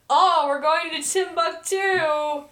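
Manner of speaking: prankster announcement. Retold or imitated. Retelling Alvin's intercom prank on passengers, slow put-on announcement. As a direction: lightly imitate a prankster stretching out the words. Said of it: "pranking everybody on the, the intercoms. When he's like".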